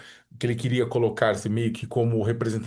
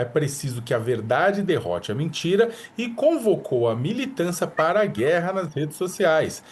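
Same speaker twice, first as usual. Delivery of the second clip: measured anchor delivery with punched key phrases; news read. Acted. Anchor reads a news report.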